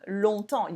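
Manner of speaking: "Longtemps" with no G, P or S heard; "Longtemps" ending on the nasal vowel; silent letters. Shown as a demonstration. Teacher modelling "Longtemps" for students, letters silent. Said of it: "You don't say the G and you don't say the P and the S".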